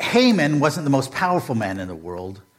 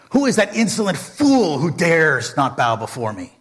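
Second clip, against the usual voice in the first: indignant villain; 5 semitones higher, 4 dB louder than usual. Retold or imitated. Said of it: "he turns to his servant and says".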